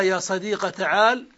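صديق ends in a short a; fatha ending. Shown as a demonstration. Teacher listing the fatha form, fatha ending. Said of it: "فتح آخر المنادى مع حذف الياء".

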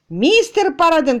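high, loud shout of a name. Acted. Tutor bursting into the study, shouting for Mr. Paraden. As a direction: burst in yelling his employer's name. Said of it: "кричал он".

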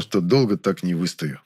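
usual speaking voice

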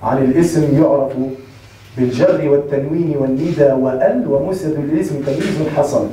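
low, measured recitation of a grammar poem; low chanted verse; reciting verse. Retold or imitated. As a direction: intone the Alfiyya line like a memorised verse. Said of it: "صاحب الألفية في تنباك يقول".

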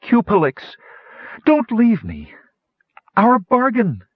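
high-pitched, pleading wail; frantic plea called out; desperate cry. A narrator's reading. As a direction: beg someone slipping away to stay. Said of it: "Kitiara cried desperately".

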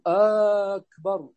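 أكبر opened with a long "aaa"; lengthened hamza. Shown as a demonstration. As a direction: hold the first vowel of أكبر, "aakbar". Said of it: "همزة أكبر". (مد همزة "أكبر" في أولها)

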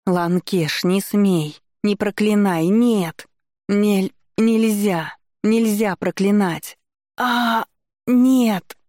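high sobbing shouts; angry crying. A narrator's reading. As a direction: scream and choke on tears. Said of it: "Я кричала, захлёбываясь слезами".

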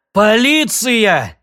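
loud, drawn-out yell. Acted. Sid yells at the police channel, loud and slow. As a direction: bellow it slowly. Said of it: "завопил Сид".

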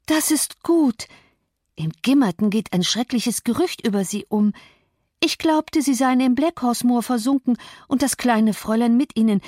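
lightly voiced gossiping servant; gossipy housemaid. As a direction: rattle on like a nosy maid. Zilla's chatter voiced by narrator.

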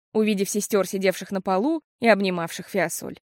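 ordinary delivery, nothing marked

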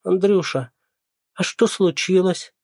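a lightly voiced old neighbour asking; elderly neighbour. A narrator's reading. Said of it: "Пожилая женщина".

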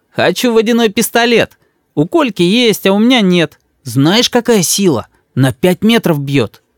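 высокий детский голосок, с вызовом; мальчик беззаботно встревает; ребёнок. A narrator's reading. Рис хочет пистолет. (дерзкий детский голос)

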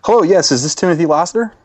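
a hint of an insurance PR man, pushy; customer service rep. Prank caller posing as Geico rep.

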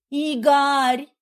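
high, loud cry of his name; wife shocked by husband's words; wounded cry. A narrator's reading. Wife cries out, hurt.

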